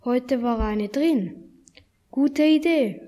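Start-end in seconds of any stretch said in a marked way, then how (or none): 2.1-3.0 eager call. Acted. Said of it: "rief Hanno".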